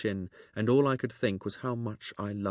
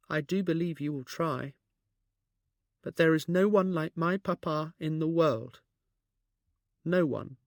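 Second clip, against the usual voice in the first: gentle; 7 semitones higher than usual. A narrator's reading. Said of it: "trying to gentle her words".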